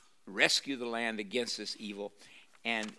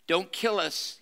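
higher, louder pleading as Gollum; whimpering Gollum; 6 semitones higher, 5 dB louder than usual. A narrator's reading. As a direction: beg for your life like a cringing Gollum. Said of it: "and he whimpered".

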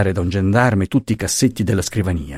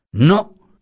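sharp, high, louder cry of refusal; exclaiming; 7 semitones higher, 3 dB louder than usual. A narrator's reading. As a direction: blurt out a startled no, raised high. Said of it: "esclamò Franco".

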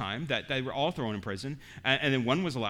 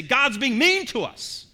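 complaining brothers; 8 semitones higher, 6 dB louder, slower than usual. Retold or imitated. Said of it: "They say".

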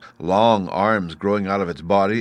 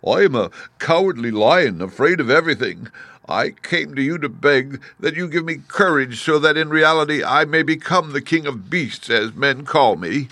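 much higher, louder pleading lion; cowardly Lion; 7 semitones higher, 4 dB louder than usual. Acted. Cowardly Lion begging Oz for courage, higher. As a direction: beg anxiously, pitched up. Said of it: "And the Lion answered".

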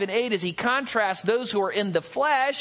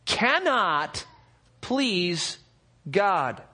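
scripture reading. Acted. Reads scripture.

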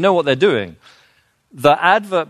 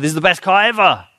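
quick, higher mock sales pitch; mock car salesman; 5 semitones higher, faster than usual. Mock car advert, pitching the best car ever. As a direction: rattle it off like a pushy car ad. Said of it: "in a parking lot and said".

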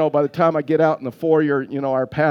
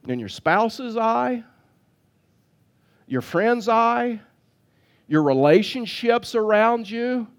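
lightly voiced Jesus; 6 semitones higher, slower than usual. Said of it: "Jesus says".

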